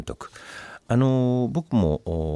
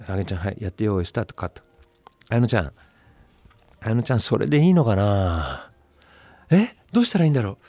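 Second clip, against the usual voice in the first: pressuring director; faster than usual. Retold or imitated. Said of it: "追い込み型".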